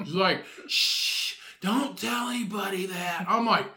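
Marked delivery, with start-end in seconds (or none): 0.7-3.3 higher mock hush; embarrassed shushing. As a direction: hush Batman in comic embarrassment. Embarrassed woman shushing Batman.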